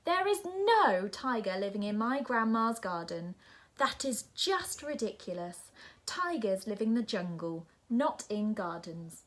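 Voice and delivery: shouting. Acted. Nora shouting at the polar bear, building. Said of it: "shouts Nora".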